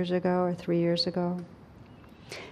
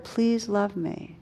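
slow, softer "please love me"; 5 dB quieter, slower than usual. Retold or imitated. Teacher voicing her heart's longing, slow and soft. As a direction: breathe it out as a longing.

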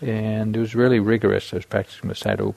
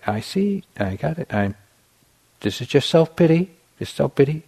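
calm noting; 6 semitones higher than usual. Retold or imitated. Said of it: "I would just say".

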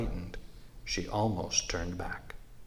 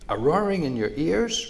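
high, louder incredulous question; surprised echo question; 7 semitones higher, 5 dB louder than usual. A narrator's reading. Raccoon replying to timid mouse, surprised question. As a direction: repeat it back in surprise, pitch lifted.

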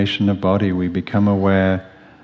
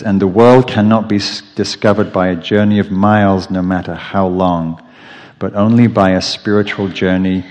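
measured, projected reading of a poem; louder, deliberate literary reading; reading aloud; 4 dB louder than usual. Acted. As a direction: read the passage out firmly, phrase by phrase.

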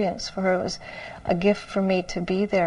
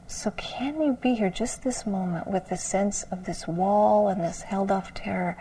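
gentle whisper. Retold or imitated. Teacher guiding a frightened student, whispered. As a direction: whisper it to steady a scared student.

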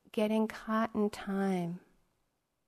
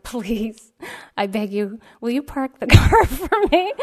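pleading; 3 semitones higher, 11 dB louder than usual. Retold or imitated. Begging old man to park truck.

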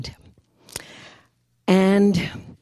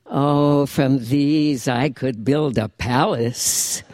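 Jewish grandmother. Acted. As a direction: lecture like a wise old Jewish grandmother. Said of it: "written in the voice of the Jewish grandmother".

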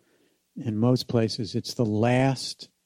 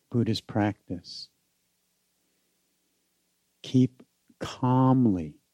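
measured contemplative delivery, phrase by phrase; guided meditation. Acted. Teacher giving the meaning of the chant to meditators, guided meditation. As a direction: let each phrase settle in silence.

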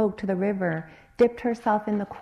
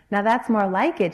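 exclaimed; 6 dB louder than usual. Acted. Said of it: "she exclaimed".

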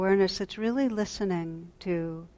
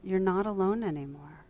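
mellifluous. Retold or imitated. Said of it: "met my vulnerability with a mellifluous".

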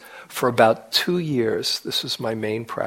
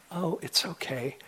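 kind inner voice; 5 semitones higher, 9 dB quieter than usual. Retold or imitated. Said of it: "that wise, kind being".

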